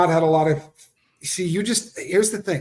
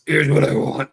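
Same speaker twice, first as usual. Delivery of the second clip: dropped-octave possessed voice. Retold or imitated. Co-host teasing her about going into that voice, mock possessed. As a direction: lightly mimic her demanding, possessed voice. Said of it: "Her voice drops an octave".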